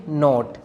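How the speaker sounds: नॉट starting on a plain N; silent K. Shown as a demonstration. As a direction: say नॉट without any K sound. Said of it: "इसी तरह केएनओटी".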